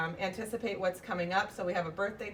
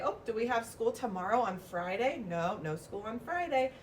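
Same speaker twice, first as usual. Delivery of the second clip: teacher questioning; 3 dB quieter than usual. Shown as a demonstration. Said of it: "I'll say".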